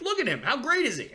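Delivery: high, eager fan voice showing off a player; excited fan. Retold or imitated. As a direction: gush to dad about the player, pitched high. Excited showing dad Robert Williams.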